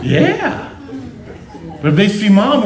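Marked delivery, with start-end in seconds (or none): 0.0-0.7 laughing. Retold or imitated. Imitating sons, laughing.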